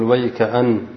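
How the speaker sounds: ويكأن as one unit, halting on the final n; stop on the nun. Shown as a demonstration. Teacher shows another reading, pausing on the n of ويكأن. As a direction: run ويكأن together and rest on its nun. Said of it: "وبعضهم يقف على النون".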